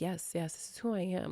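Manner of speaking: gentle quiet affirmation; soft, quiet "this is who I am". Retold or imitated. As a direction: murmur "this is who I am" to yourself. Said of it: "And I'm like".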